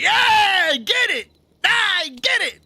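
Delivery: high, loud knowing yeah; knowing excitement. Pretend. Parent relating to their daughter, high knowing yeah. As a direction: sell it like you totally get it.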